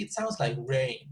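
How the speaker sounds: "rain" stressed as the new word. Shown as a demonstration. Teacher repeats new information example, stressing "rain". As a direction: put the emphasis on "rain" at the end. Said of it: "put more emphasis on this word".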